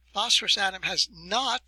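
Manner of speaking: the word not leaned on a bit harder; stress on not. Shown as a demonstration. Lecturer stressing not to his students. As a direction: put weight on not at the end of the phrase. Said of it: "I emphasize the word not".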